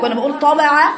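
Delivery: teacher stretching the ط in طبع for her students; heavy emphatic ṭa. Shown as a demonstration. Teacher demonstrating pronunciation, heavy ط. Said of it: "لسانك كده بقول طبع".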